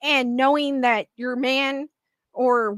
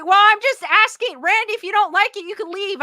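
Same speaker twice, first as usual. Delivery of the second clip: defensive retort; 5 semitones higher, 4 dB louder than usual. Real, not acted. Streamer snapping back at Randy's chat comment, defensive. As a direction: brush off a critic from the chat.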